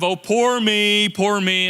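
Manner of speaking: slow, mocking whine of self-pity. Preacher mocking a victim mentality with a slow whine. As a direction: drag out poor me like a sulking victim. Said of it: "with the attitude of".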